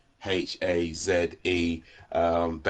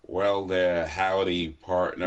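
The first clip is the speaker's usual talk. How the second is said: put-on country accent, drawn-out cowboy greeting; slower than usual. Shown as a demonstration. Brit asked by host to try a country accent, country accent. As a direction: do a playful mock country accent. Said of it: "can you do a country accent".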